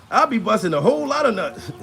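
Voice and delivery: normal talking voice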